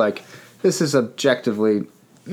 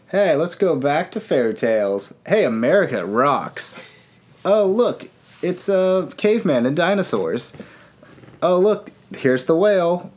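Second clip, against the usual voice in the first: higher, sing-song mock wonder; mock enthusiasm; 5 semitones higher than usual. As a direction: play up each random new sight with fake delight. Mocking the special's disjointed jumps.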